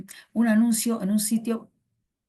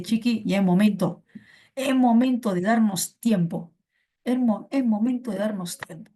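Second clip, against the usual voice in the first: teacher going crazy; 4 dB louder than usual. Retold or imitated. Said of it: "tu profe entra en locura y te dice".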